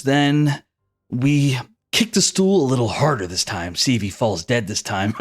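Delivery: lightly voiced taunting soldier, chuckling between lines; laughing cruel soldier. Soldier toying with a condemned deserter, mockingly amused. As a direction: jeer casually, breaking into mean laughs. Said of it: "one of the soldiers laughs and says".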